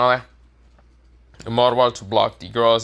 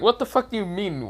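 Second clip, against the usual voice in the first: dumbfounded; 10 semitones higher than usual. Acted. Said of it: "All the guys are dumbfounded".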